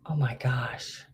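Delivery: breathy whisper of frustration; whispered to herself. Real, not acted. Host stuck on a word, whispering to herself. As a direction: whisper it under your breath, stumped.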